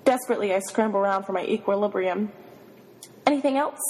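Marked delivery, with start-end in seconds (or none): 3.2-3.8 husky, higher-pitched question; husky and breathy. A narrator's reading. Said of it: "My voice is husky and breathy".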